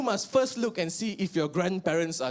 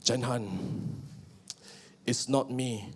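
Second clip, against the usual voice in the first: breakup line; 5 semitones lower, 4 dB quieter, slower than usual. Acted. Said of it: "random girl can say".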